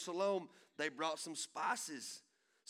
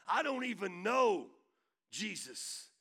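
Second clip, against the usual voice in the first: loud panicked denial, higher; frantic denial; 5 semitones higher, 7 dB louder than usual. Acted. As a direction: insist it was never you, voice up and loud. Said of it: "And Peter's like".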